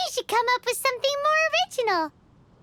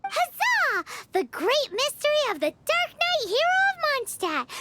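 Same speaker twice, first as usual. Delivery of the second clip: triumphant cheer; 4 semitones higher than usual. Acted. Paimon cheering a solved mystery.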